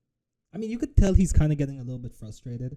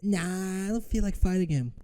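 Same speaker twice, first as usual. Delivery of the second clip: mock quote; 5 semitones higher than usual. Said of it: "Ali was like".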